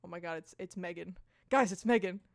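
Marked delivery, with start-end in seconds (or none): 1.5-2.2 loud excited announcement; mock hype. Announcing Megan's arrival to everyone, mock hype. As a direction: call it out to the group.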